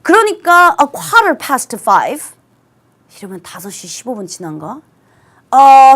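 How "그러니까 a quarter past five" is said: "A quarter past five" very slow and clear; slow dictation. Shown as a demonstration. Teacher dictating the time to students. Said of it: "똑같이 쓸 수 있죠".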